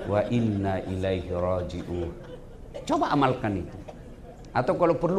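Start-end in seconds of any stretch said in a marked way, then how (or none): 0.1-2.1 mock weary recitation. Shown as a demonstration.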